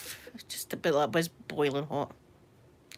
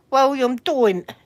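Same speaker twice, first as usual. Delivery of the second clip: slow, louder scolding; warning; 3 semitones higher, 5 dB louder, slower than usual. Real, not acted. Streamer telling William not to annoy them, warning. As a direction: draw out a telling-off.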